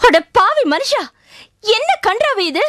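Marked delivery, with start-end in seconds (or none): 0.1-1.0 a touch louder, scolding outburst; wife scolding her drunk husband, exasperated cry. Acted. Wife rebukes her tipsy husband, scolding loudly.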